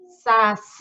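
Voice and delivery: SACI with a long, loud SI; "Sa-ciii", last syllable stretched; stressed last syllable. Shown as a demonstration. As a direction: call out Saci, holding the final SI. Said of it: "Qual é a mais forte de saci?".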